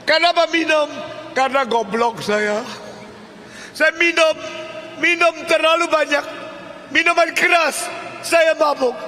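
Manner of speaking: preacher's high-pitched, shouted dramatization. Acted. Preacher acts out interrogation and confession.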